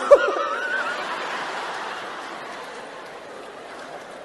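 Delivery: risa alta y sin voz, larga; ríete a carcajadas, agudo y sin voz; carcajada aguda. Real, not acted. Carcajada tras la cita. (carcajada larga y aguda)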